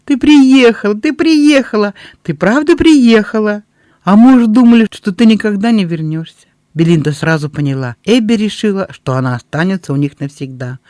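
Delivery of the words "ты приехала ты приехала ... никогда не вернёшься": much higher, loud overjoyed exclaiming; half laughing, half tearful at the reunion; woman overjoyed to see her friend return, tearful; laughing and crying. A narrator's reading. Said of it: "Она смеялась и плакала одновременно".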